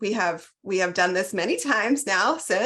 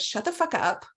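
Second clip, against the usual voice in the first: mock scolding self. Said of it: "And finally I said".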